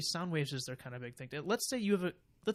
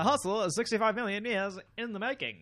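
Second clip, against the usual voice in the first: big hyped show intro; announcer voice; 6 semitones higher, 6 dB louder than usual. Acted. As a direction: boom it out like a trailer announcer. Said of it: "redoes intro line louder".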